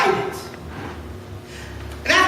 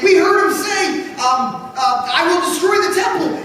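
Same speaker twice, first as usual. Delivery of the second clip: higher, louder accusation; accusing shout; 5 semitones higher, 4 dB louder than usual. Acted. False witness denouncing Jesus to the council, loud. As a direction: call it out like a crowd witness.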